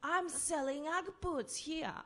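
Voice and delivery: put-on high, loud and slow drunken boast; drunk guy voice. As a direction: drag it out like a proud tipsy salesman. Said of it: "and he said".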